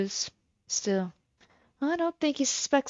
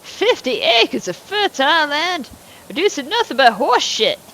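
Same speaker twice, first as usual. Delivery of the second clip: put-on a loud, higher-pitched cantankerous old farmer; gruff old farmer; 4 semitones higher, 5 dB louder than usual. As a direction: play the surly old landowner, talking down to the neighbor. Plays Mister Morgan.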